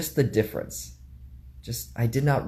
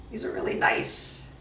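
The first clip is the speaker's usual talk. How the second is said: whispering; 3 dB quieter than usual. Real, not acted. Whispering about glasses.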